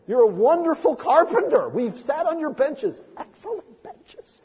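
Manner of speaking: a polite but anxious push-back to the rabbi; protesting disciples. Pretend.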